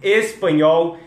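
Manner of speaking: "Espanhol" with a clear opening E; E-initial espanhol. Shown as a demonstration. Teacher correcting himself, "Espanhol" with a full E. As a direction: sound the first E of "Espanhol". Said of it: "sorry, eu tô colocando o I".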